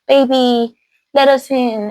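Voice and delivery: imitated pleading to a wife; coaxing husband. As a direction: wheedle like a husband at the door. Turned husband coaxes his wife.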